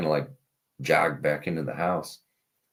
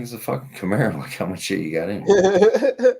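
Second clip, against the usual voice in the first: incredulous mock retort; 9 semitones higher, 7 dB louder than usual. Incredulous retort to gunman, retold.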